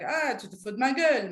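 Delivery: quick, breezy, half-laughing "Ah, tu te fous de ma gueule"; teacher shows the relaxed, joking way to say it; light casual disbelief. Shown as a demonstration. Teacher demos the casual way to say it, lightly. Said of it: "you can say it like".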